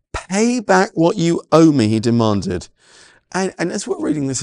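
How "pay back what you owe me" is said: harsh demand. Acted. Servant demanding debt from fellow.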